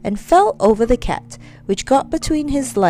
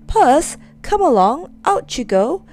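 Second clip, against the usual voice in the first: raised voice calling out to the cat; 5 semitones higher, 4 dB louder than usual. Acted. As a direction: call the cat out the door, a bit louder.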